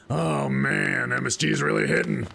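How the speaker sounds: booming goofy diner impression; loud tipsy diner. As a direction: imitate a cartoonish, slightly drunk guy. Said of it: "Like, exactly like that too".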